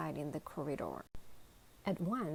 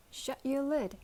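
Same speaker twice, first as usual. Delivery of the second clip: higher, fierce command; 7 semitones higher, 4 dB louder than usual. A narrator's reading. Pig orders lunchbox to shut up, fierce. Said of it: "said the Christmas pig fiercely".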